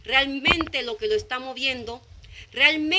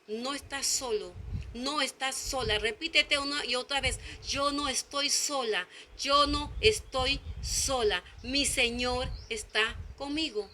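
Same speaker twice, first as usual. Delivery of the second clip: softly repeated affirmation; 6 dB quieter than usual. Shown as a demonstration.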